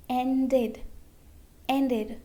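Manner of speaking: "ended" in two syllables, en-did; "ended" modelled twice with a full -id ending; pronounced E. Shown as a demonstration. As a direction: sound the E in the last syllable of "ended". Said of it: "so we pronounce letter E".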